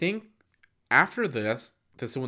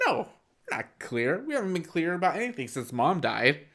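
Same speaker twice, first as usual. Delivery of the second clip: raised, higher mock yell; retold screaming argument; 4 semitones higher, 6 dB louder than usual. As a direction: imitate a son shouting back at dad. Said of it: "continue to scream at each other".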